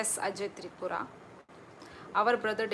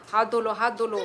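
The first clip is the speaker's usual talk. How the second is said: laughing; 7 dB louder, faster than usual. Real, not acted. Mother telling daughter.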